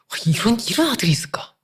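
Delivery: marveling whisper. Real, not acted. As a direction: breathe it out in wonder. Marveling at imagined son.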